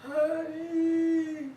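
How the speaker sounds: high, loud, drawn-out call for help; acted cry of distress; imitated distressed voice. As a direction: wail it out as the husband in distress. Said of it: "this kind of voice in distress".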